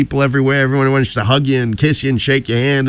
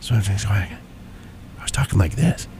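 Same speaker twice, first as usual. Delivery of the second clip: hushed, halting, much softer voice; whispering; 3 semitones lower, 8 dB quieter, faster than usual. Retold or imitated. Showing how he talked after the flight, whispered. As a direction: demonstrate a voice too faint to hear. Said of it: "You're whispering to me".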